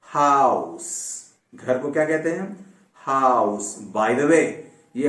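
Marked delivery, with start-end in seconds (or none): 0.0-3.8 हाउस with long "au" and hissed S; final S sound. Shown as a demonstration. Teacher giving an example word, slow हाउस ending in S. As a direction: stretch हाउस and end on a voiceless S. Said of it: "सीन का sound आता है".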